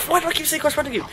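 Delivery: high, quick laugh-through line; laughing at himself. Real, not acted. Gamer laughing at his own mix-up, amused. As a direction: giggle at your own slip of the tongue.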